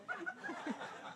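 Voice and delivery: laughter. Real, not acted. Audience laughs at punchline.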